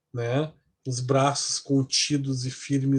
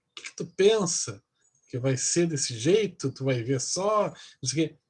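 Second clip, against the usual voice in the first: mock challenge. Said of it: "com a mão em riste".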